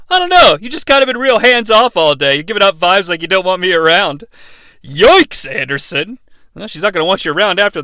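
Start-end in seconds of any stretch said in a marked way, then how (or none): 0.1-4.2 mock moron. Clueless date complains about hands-off vibes, mock moron. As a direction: imitate a clueless guy complaining. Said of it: "like a complete moron, says".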